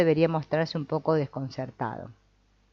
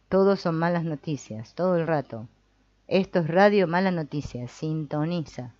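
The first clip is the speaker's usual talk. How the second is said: radio announcer. Shown as a demonstration. Therapist playing a radio announcer, a hint of host voice. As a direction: announce it like a bad news radio DJ. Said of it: "di con voz de locutor de radio".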